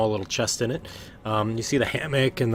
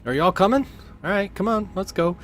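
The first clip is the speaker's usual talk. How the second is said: much higher, louder, pushy friendly sailor; high eager sailor voice; eager recruiter; 10 semitones higher, 3 dB louder than usual. Acted. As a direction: hurry them along with a grin. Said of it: "he says".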